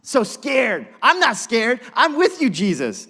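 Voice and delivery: Brooklyn swagger. Acted. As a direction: play Peter as a cocky Brooklyn guy. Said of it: "Brooklyn swagger Peter's got".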